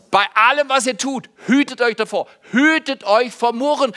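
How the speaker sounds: recited aloud with the congregation. Shown as a demonstration. Pastor has the congregation repeat the verse, loud and together. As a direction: lead the room in saying the verse out loud. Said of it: "können wir es miteinander sagen?".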